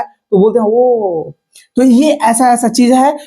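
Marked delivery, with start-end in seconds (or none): 0.7-1.3 surprised oh. Shown as a demonstration. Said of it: "कोई आश्चर्यजनक word आ जाता है".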